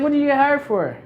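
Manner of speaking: high, eager questioning relative; curious aunts. Retold or imitated. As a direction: ask it like a nosy aunt. Aunts asking the position.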